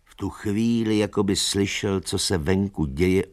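plain reading voice

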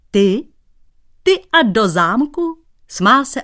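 high, loud mocking laugh. Cobbler laughs at the painter heading to the castle, mocking laugh. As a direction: laugh him to scorn. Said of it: "a smál se o sto šest".

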